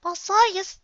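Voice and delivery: high, breathy little filly whisper. Acted. Little sister asking Applejack, in a high whisper. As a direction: hush it like a small sister.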